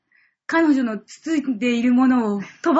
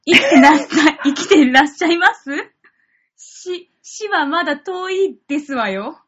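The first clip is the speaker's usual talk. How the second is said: hammed-up lady's speech; haughty rich girl japanese; 3 semitones higher, 4 dB louder than usual. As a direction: overdo the elegant lady. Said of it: "どんなセリフ回しなの？". (大げさなお嬢様口調)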